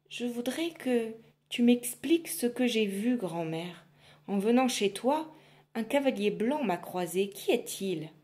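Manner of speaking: lightly voiced shy girl; timid girl. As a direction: ask shyly. Girl questions witch.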